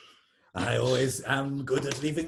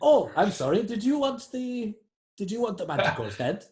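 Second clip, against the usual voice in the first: sarcastic, higher and louder; mock apology; 9 semitones higher, 5 dB louder than usual. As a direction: fake sorry, smug rival. GM mocks as rival NPC.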